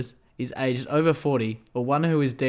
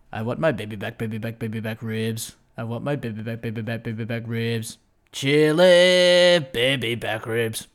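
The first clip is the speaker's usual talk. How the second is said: a lightly voiced, lower chant of the ribs jingle; Fat Bastard; 3 semitones lower than usual. Host doing a light Fat Bastard impression on request. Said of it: "Fat Bastard".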